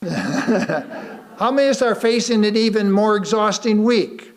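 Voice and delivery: asked through real laughter; laughing question. Real, not acted. Preacher asking the tired congregation, laughing. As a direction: laugh along with the room while asking.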